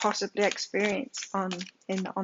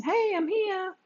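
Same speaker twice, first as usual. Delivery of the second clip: high, bright call from the universe; a lightly voiced universe calling out; 11 semitones higher, slower than usual. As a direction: speak as the cosmos saying hello. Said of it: "the universe is saying".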